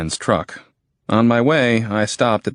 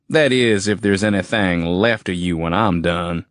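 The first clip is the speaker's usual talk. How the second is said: menacing redneck soldier; 3 semitones higher than usual. Acted. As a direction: gloat over the threat. Soldier threatening.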